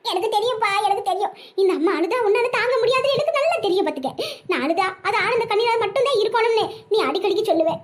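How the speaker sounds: hammed-up tearful lament; crying. Mother tells dead son she knows he hates her crying, tearful. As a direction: talk through tears, ending in sobs. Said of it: "ரெண்டு பேரும் அழுகிய நிப்பாட்டுங்க".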